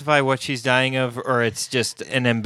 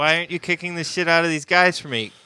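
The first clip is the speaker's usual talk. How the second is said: imitating Mark; 5 semitones higher than usual. Voicing Mark as pleading hanger-on.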